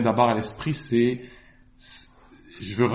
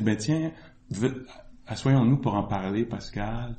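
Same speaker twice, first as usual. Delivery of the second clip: calm retold invitation, trailing softer; très calme; 2 semitones lower, 4 dB quieter than usual. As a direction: imitate a composed teacher settling someone down. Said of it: "très calme, il a dit". (invitation posée, calme imité)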